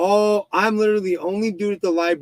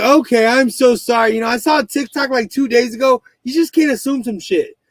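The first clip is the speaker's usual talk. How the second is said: flustered apology; 7 semitones higher, 5 dB louder than usual. Retold or imitated.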